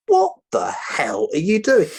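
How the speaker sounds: loud, high mock yell at the hostages; angry guard. Guard confronting the returning hostages, loud and angry. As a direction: shout at them like a furious guard.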